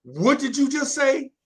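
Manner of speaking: put-on high, loud startled kid; shocked question. Kid overhearing teachers, shocked outburst. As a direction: blurt it out in disbelief.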